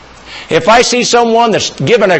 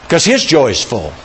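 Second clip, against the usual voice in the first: ordinary talk, nothing marked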